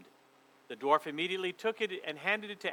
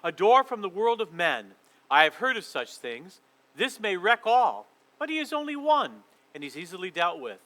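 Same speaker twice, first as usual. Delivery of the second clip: queen plotting; 6 dB louder than usual. Acted. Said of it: "speaking to herself more than to him".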